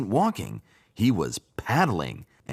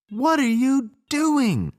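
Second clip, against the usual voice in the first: frogs shouting together; 6 dB louder than usual. A narrator's reading. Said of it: "said all the other frogs at once".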